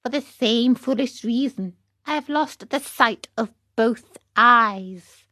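lightly put-on cat voice; a hint of a cat character; plaintive cat. Cat telling Pinocchio of lost sight, lightly voiced. Cat echoes the fox's tale.

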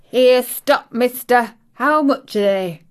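abrupt, urgent hail; sudden call-out. A narrator's reading. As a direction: call after someone to stop them. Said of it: "she calls out quite sudden".

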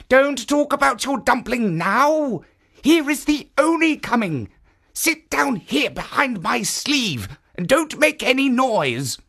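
a lightly voiced kindly guardian; kindly statue voice. Jitso warns her.

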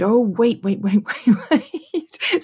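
laughing Indian accent imitation; playful Indian accent, rising. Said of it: "in a Indian accent when I was saying".

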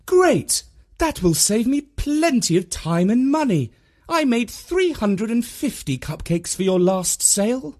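sarcastic mum. A narrator's reading. Mum mocking reply.

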